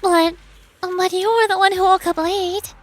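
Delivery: high, loud indignant retort; indignant protest. Acted. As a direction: protest like a wronged cadet. Indignant protest in voiced scene.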